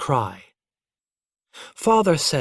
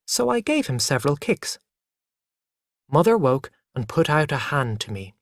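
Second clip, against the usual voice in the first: ordinary delivery, nothing marked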